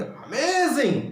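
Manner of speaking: very slow, drawn-out amazing; delighted. Shown as a demonstration. Teacher to students, a slow delighted amazing. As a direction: savour the word with joy. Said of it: "हम खुश हो गए, तो हम कहेंगे".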